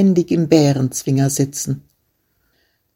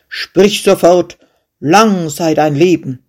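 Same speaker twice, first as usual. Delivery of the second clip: angry king; 4 dB louder than usual. Acted. King commands the fearless shepherd, angry and loud. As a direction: demand it like an offended ruler. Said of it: "Verärgert rief der König".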